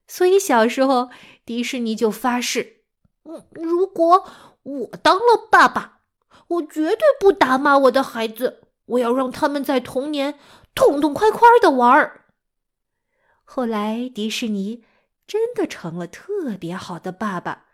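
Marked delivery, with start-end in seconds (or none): 3.2-12.2 earnest vow. Acted. Boy Disney swears an oath.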